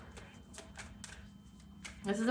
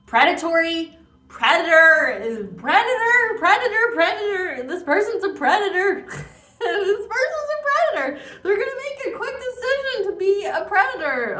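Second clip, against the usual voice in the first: high-pitched alarm; 10 semitones higher, 7 dB louder than usual. Real, not acted. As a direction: call it out high and loud, over and over. Repeated warning cried out mid-reading.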